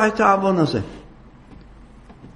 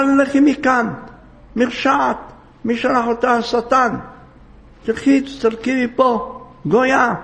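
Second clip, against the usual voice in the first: retold shouting; 4 semitones higher than usual. Boy driving off the wicked woman, mock shout. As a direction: drive her away with a raised voice. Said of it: "צעק, צעקות".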